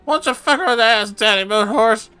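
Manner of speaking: shrieking high demon howl. Acted. Possessed Christine howling at the priests.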